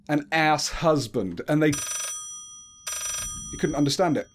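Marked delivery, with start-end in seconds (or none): 0.1-1.4 slow, puzzled echo of "ass husband"; imitated bafflement at an accent; Rich Hall. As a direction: repeat "ass husband" slowly as if not understanding. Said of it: "and Rich Hall went".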